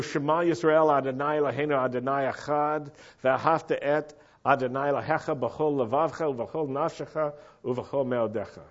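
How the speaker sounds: Hebrew recited with an American accent. Shown as a demonstration. Preacher quoting Yeshua's answer, Hebrew in an American accent. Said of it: "I said it with an American accent".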